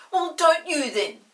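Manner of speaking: loud, slow sulky comeback; sulky retort. Acted. Peter answers Molly, slow and sulky. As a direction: drag it out like a sulking boy. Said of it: "said Peter".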